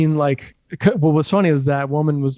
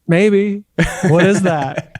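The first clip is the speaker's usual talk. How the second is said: playing dumb; 4 semitones higher, 3 dB louder, much slower than usual. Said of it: "And I'm like".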